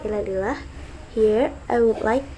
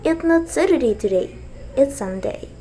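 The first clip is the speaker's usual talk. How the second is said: teacher demo, "Sunday" falling clearly at the end; 4 semitones higher than usual. Shown as a demonstration. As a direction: voice starts high, then falls on "Sunday". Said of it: "you can pronounce it with falling tone".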